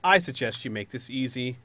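loud threat settling into cool advice; threatening villain. Acted. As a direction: press the ultimatum, then ease off. Villain threatens the trapped group.

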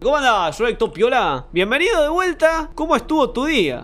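lines read out high and bright; lightly put-on high host voice. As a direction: read the host's welcome way up high. Reading the host's game dialogue.

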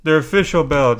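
lightly voiced smug fan, slowed in spots; a hint of a boastful gamer; mocking a proud fan. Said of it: "people were like".

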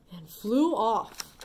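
usual speaking voice

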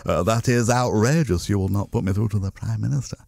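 a hint of an indignant Hague on the phone; mock-outraged opposition leader demanding to be put through, lightly done; lightly voiced William Hague. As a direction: prank caller voicing William Hague with mild indignation. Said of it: "the idea of the joke was meant to be".

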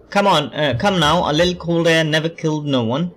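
badly faked Scottish accent; amateur mock-Scottish, teasing; attempted Scottish accent. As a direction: have a shaky go at a Scottish accent. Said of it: "why am I doing the Scottish accent".

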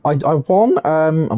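croaky, failing voice; hoarse voice. Real, not acted. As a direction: voice giving out. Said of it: "my voice isn't working".

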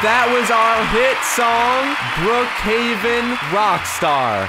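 showy band frontman outro; stage announcement. Acted. Band thanks crowd after song.

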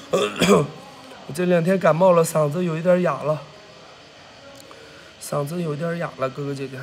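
real slight hoarseness; hoarse from a cold. Real, not acted. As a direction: let the sore throat weigh the voice down.

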